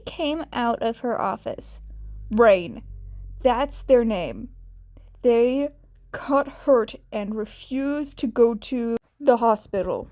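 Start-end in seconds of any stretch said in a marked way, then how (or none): 2.3-10.1 urgent explanation. Acted.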